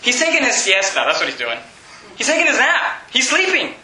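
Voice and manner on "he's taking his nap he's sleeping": lightly teasing, higher pitched; mild mock explanation. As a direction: needle them playfully. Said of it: "Just mocking them".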